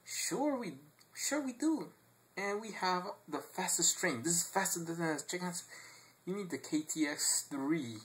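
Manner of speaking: a proud local bragging; high, eager boast; Korean local voice. Retold or imitated. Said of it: "asked that person and says".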